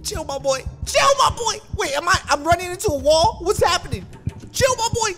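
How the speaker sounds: high, frantic appeals; panicked pleading. Real, not acted. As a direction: beg the pursuer to back off. Begs pursuing frog to chill.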